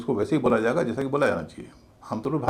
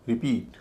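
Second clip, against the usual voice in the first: "रिपीट" with a light "रि" and long, heavy "पीट"; stress on second syllable; slower than usual. Shown as a demonstration. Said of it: "दूसरे syllable पर stress है". ("रिपीट" में "पीट" पर ज़ोर, "रि" हल्का)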